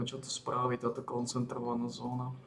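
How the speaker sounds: ordinary delivery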